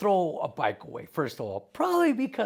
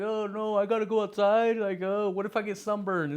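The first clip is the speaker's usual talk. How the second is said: raised, hammed-up whining; mock a spoiled kid's fear of sun; mocking whiny kid; 5 semitones higher than usual. Mocking today's kids afraid of sunburn, high and whiny.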